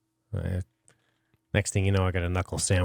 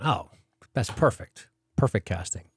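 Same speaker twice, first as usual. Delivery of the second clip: mock approval, lightly sarcastic; understated sarcasm. Real, not acted. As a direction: play along as if you know exactly who that is. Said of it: "I'm being sarcastic".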